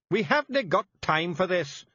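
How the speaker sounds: high, loud Scots snap; sharp high Feegle snap; snapped. A narrator's reading. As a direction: cut the chatter short. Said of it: "snapped Rob Anybody".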